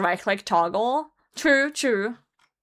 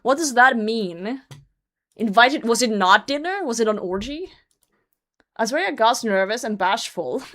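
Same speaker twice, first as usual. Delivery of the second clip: ordinary delivery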